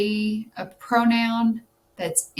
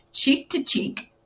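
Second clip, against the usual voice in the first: breathy read; 6 semitones higher than usual. Acted. Reading answer option aloud.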